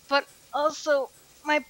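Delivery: strained words while stretching mid-stretch; stretching groan. Real, not acted. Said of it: "sorry, I'm stretching".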